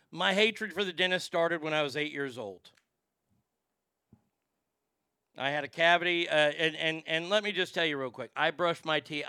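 talking with a dip of tobacco in; words around a wad of tobacco; chewing tobacco. Real, not acted. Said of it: "I should put a dip of tobacco in my mouth".

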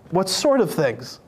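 slow, innocent question; playing dumb. Jesus playing dumb on the road, slow innocent question. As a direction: act like you know nothing. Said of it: "he plays dumb".

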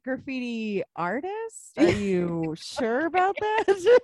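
drawn-out, high-rising sceptical question; stretched-out incredulous query; mock disbelief. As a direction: question it slowly with exaggerated doubt. Acted sceptical reaction to a claim.

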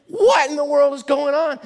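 high, loud astonished cry; bewildered shout. Acted. Preacher voicing stunned crowd, loud and high. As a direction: sound utterly baffled. Congregation shocked by roof hole.

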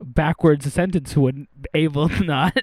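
slow, lightly attempted backwards talk; half-hearted, slow creature-sage attempt; Yoda. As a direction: puzzle out the word order slowly. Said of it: "attempt to sound like Yoda".

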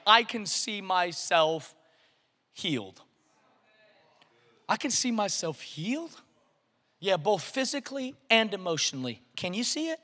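hushed preacher inviting faith; soft confession. Acted. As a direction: say it quietly, believing it. Soft declaration.

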